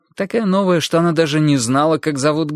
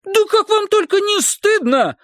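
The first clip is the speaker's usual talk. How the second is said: scolding yell. Acted. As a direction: yell at the children in outrage. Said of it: "завопила она". (громкий возмущённый крик)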